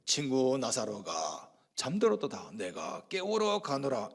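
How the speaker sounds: slow, low, hushed sacred pronouncement; holy, solemn Jesus. Acted. Jesus telling disciples he will wake Lazarus, holy and solemn. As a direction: intone it reverently, drawing it out softly. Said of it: "아주 거룩하게".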